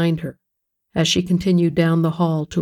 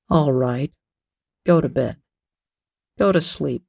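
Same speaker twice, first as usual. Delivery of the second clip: sneering husband; 3 semitones lower than usual. A narrator's reading. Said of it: "like an angry bull ... a sneer".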